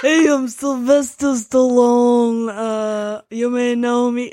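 slow Stallone through giggles; slow, giggling Stallone attempt; laughing Stallone impression. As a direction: try Stallone while cracking up. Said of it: "Let me see if I can do".

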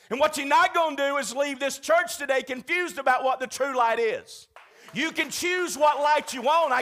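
loud, emphatic warning; forceful insistence. Acted. Pastor warning his church not to leave confused, loud and emphatic. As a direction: drive the point home hard.

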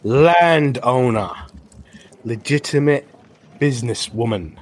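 war-painted woman mocking the guards; triumphant gloat. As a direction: rub it in their faces. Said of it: "she goes".

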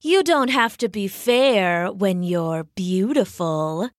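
slow, silky purring cheetah; a vain cat purring; purred. Acted. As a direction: purr it out smugly. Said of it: "purred the cheetah".

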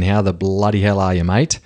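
easygoing Australian in his natural voice; Aussie slang. Shown as a demonstration. Host checking his slang, relaxed natural Australian. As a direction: say it like an everyday Aussie greeting. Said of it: "make sure I've still got my Aussie slang dialed in".

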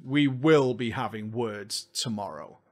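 low, quiet, slow menace; low mock threat. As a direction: growl the warning softly. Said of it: "Oh, yes".

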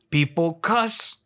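conspiratorial whisper; hushed mock-secret whisper.

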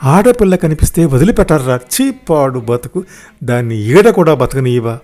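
indignant volley of questions; mildly acted angry telling-off; scolding. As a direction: berate him in disgust. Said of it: "అత్త తిట్టిపోసింది ఆడిని".

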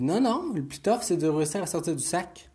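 put-on high, eager kid voice; eager little boy. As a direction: pipe up like a keen child. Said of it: "Il dit".

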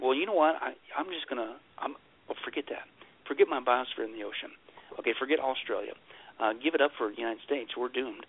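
quiet, deflated mock surrender; mock resignation. Someone giving up hiding, quietly deflated. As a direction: let it sink into defeat.

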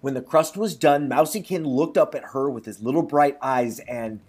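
measured storybook reading; lightly performed storyteller; story narration. A narrator's reading. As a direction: read it like a folk tale aloud. Reads a folk tale.

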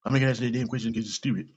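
fast, dismissive mock rant ending in a loud bark; mock Trump yelling. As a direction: snap it off like a brushed-off reporter. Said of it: "you yell at them".

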